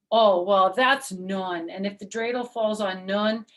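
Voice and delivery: patient, crafty teacher laying out the rules; Herschel explaining rules. Acted.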